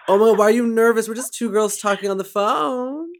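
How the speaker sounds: high, loud and fast; bubbly reassurance to a nervous fan; excited. Real, not acted.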